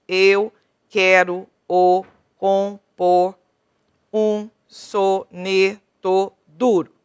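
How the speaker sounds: slow, stretched syllable-by-syllable scansion; teacher scanning the verse slowly for students. Shown as a demonstration. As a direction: draw out each poetic syllable to count it. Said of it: "vou contar até a última sílaba tônica".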